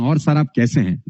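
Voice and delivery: courteous, respectful greeting; polite tone. Shown as a demonstration. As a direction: ask kindly how he is. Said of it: "बात तो वही है, लेकिन tone". (विनम्र, आदरपूर्ण लहजा)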